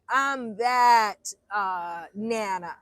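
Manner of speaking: shouting it proudly about herself; emphatic shout. Real, not acted. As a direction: belt it out with pride. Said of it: "I'm that Nana".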